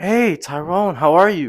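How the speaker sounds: cheery put-on little voice. Retelling how she greeted Tyrone, imitating her happy little voice. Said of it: "In her happy little voice".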